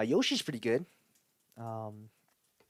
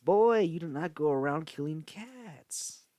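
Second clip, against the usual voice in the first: scolding drawl; 3 semitones higher, 4 dB louder, much slower than usual. Acted. Scolding voice after the creepy story.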